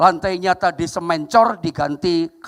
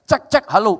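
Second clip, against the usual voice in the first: higher mimicked microphone test; mock mic check; 5 semitones higher, 4 dB louder than usual. Villager testing the church's tape deck, mock mic check. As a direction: lightly act out testing the old deck. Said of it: "suka ngelawan kalau dites".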